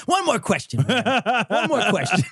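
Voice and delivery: lightly voiced rumpled detective; Columbo. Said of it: "like Columbo".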